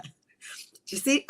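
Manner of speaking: high and very slow, amazed; awed wonder. Real, not acted. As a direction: let each word hang in awe. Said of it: "It makes me really emotional".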